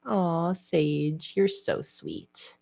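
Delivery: hushed fond murmur to the cat; tender. Real, not acted. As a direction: melt over her sweetness.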